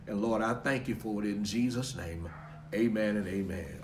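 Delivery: steady, earnest prayer voice. Acted. Pastor praying over everyone watching, earnest prayer. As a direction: pray over the people, measured and sincere.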